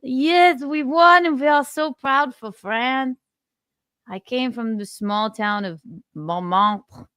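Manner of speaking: high, proud fake French speech; mock French accent. French winner giving acceptance speech, proud mock French accent. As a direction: declaim it in a hammed-up French accent. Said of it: "How do you do a French accent?".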